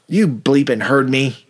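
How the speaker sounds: slow growl through laughter; laughing. Retold or imitated. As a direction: drag it out while cracking up. Suspect voiced, slow, laughing.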